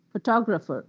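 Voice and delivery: "photographer" with TOG stressed; stress on second syllable. Shown as a demonstration. Teacher showing how stress clarifies words, second-syllable stress. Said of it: "If the word is on the second syllable".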